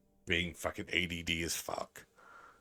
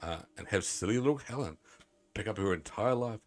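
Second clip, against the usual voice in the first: measured, lilting letter reading; reading aloud. Acted. Streamer reads Grandma's pleading letter aloud, lilting storytelling tone. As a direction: read it out like a heartfelt in-game letter.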